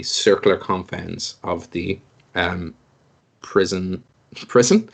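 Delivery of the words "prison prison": catching own slip with a rise; startled at own misreading; misread word. Real, not acted. GM catching his own misread word. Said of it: "Sorry. ... I was reading prison notes".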